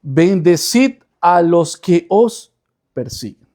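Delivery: slow, deliberate reading of the verse; scripture reading. Shown as a demonstration. A preacher to his congregation, reading the verse slowly. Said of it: "Vamos a ver lo que dice el texto".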